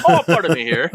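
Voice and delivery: put-on posh English accent. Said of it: "English accent".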